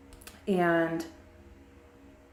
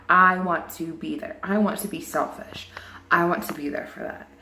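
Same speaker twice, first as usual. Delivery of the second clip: teary-eyed. Real, not acted. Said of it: "I'm getting teary-eyed".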